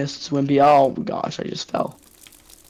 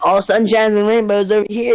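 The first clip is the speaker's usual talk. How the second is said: mock cheerful; 5 semitones higher, 4 dB louder than usual. Sarcastic cheery gaming banter.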